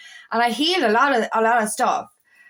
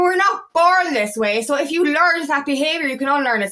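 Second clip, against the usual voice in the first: raised, impassioned voice. Real, not acted. Speaker heatedly correcting own belief about being born angry, raised voice. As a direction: push the words out as if telling yourself off. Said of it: "I'm shouting at myself here".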